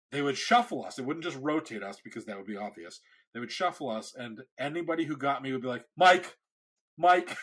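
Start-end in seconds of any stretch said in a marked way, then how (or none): 6.0-7.4 louder, higher, knowing call of his name; imitating classmates naming him, louder and higher; mock classmates calling. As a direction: call out the name like you just figured it out. Blindfolded classmates guessing his face.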